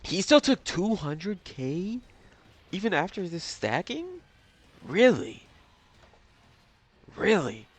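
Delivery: high, loud incredulous question, slowed; can't believe what he's seeing; stunned, drawn-out disbelief. Real, not acted. Disbelief at the damage taken.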